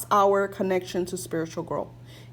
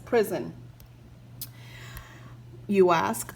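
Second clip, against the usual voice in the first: reading aloud. Acted. Reads passage from the book.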